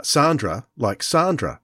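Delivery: "Sandra" with a long, broad ah; Sandra as Sahn-dra. Shown as a demonstration. Australian host quoting the TV show, "Sandra" with broad ah. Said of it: "pronounced the name".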